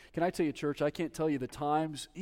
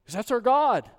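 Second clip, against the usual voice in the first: bursts out proclaiming, louder and higher; loud exclamation; 6 semitones higher, 7 dB louder than usual. Real, not acted. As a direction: cry it out to the church. Preacher exclaims to congregation.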